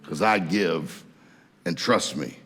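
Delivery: lightly played tither lounging under the palm tree; calm unworried. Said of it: "Why are you not worried?".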